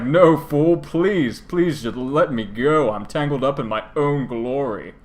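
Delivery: hammed-up plea, drawn out; mock-dramatic begging; theatrical dragon pleading. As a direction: plead grandly, like a pompous villain. Same dragon pleading with twin.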